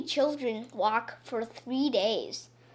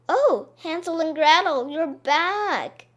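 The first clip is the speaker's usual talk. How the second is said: high, loud glad welcome; overjoyed to see them; joyful father; 5 semitones higher, 5 dB louder than usual. Acted. Father greets children.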